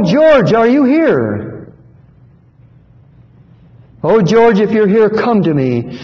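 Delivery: a hint of a trembling old father pleading for his son; quavering old father. Old father in the congregation calling for his lost son, lightly quavering. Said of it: "in a quavering voice".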